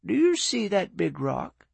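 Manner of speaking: put-on a gentle old lady pointing out to sea; Willow's voice. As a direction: Willow asking Jones about the rock.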